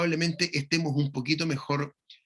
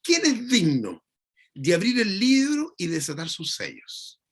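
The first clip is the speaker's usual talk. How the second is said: angel proclaiming loudly; 4 semitones higher than usual. Retold or imitated. Preacher voicing the strong angel's loud proclamation. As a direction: announce it like a mighty angel calling out. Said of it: "pregonaba a gran voz".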